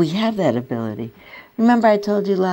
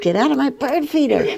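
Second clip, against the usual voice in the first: higher, louder shout at the squirrel; retold shout; 10 semitones higher, 4 dB louder than usual. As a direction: yell it to shoo the squirrel off. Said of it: "and I shouted at it".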